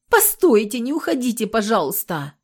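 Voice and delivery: high, loud plaintive plea; pitiful pleading. A narrator's reading. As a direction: beg them to stay, pitifully. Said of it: "в голос жалобности".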